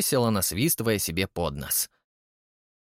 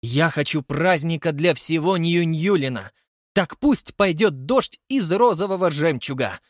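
higher, louder magic announcement; grand proclamation; 5 semitones higher, 3 dB louder than usual. Acted. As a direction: cast the wish with flair. Holly making a grand wish. (торжественное громкое провозглашение)

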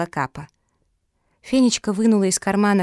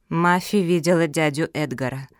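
grim; 2 semitones lower than usual. A narrator's reading. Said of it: "мрачно произнесла Капа".

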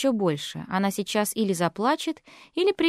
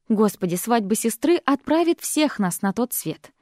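ordinary delivery, nothing marked

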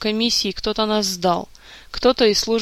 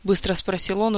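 ordinary delivery

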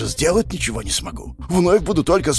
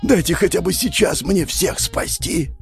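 higher, pleading cry; desperate plea; 8 semitones higher than usual. Acted. Hero begging to save everyone, desperate. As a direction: beg with rising desperation.

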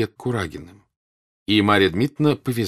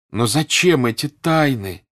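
higher, drawn-out puzzled questions; raised, searching questioning; insistent questioning; 7 semitones higher, 6 dB louder, slower than usual. A narrator's reading. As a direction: press for an answer, stretching the words. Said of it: "спрашивала Соня".

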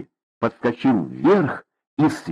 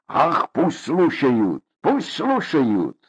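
defiant; 3 semitones higher, much slower than usual. Acted. Father dismisses neighbours overhearing.

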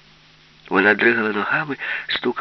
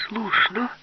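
shout; 12 semitones higher than usual. Acted. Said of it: "крикнула Юлька".

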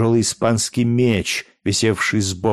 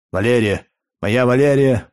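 louder, rising call of despair; anguished cry; 4 semitones higher, 4 dB louder than usual. A narrator's reading. Spartacus calls to the fainted Valeria with growing anguish, louder. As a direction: cry her name out in anguish. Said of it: "воскликнул с невыразимой тоской".

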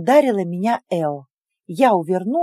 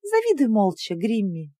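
honeyed spite. Acted. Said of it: "медово злым голосом".

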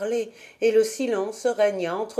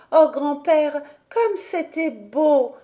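put-on higher, delighted child's cry; delighted exclamation; 6 semitones higher, 3 dB louder than usual. A narrator's reading. Heidi runs to grandfather full of wonder, delighted cry. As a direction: gasp it out with joy. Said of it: "s'écria-t-elle".

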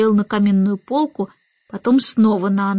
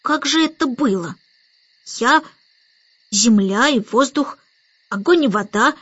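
hoarse whisper; 2 semitones higher than usual. A narrator's reading. Starling recalls earth and air for the baby, hoarsely hushed. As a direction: half-whisper it with long pauses. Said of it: "начал он хриплым шёпотом".

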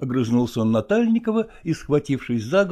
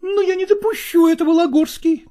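high, firm female voice; determined woman; 5 dB louder than usual. Acted. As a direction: plant your feet, pitched high. Nastina vows.

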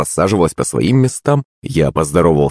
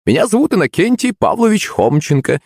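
ordinary delivery, nothing marked

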